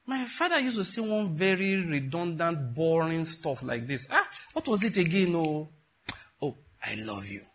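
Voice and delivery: lento sarcasmo annoiato che si spegne piano; sarcastica. Retold or imitated. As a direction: imita una ragazza sarcastica, strascicando le parole. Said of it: "the way she said it, with a lot of sarcasm".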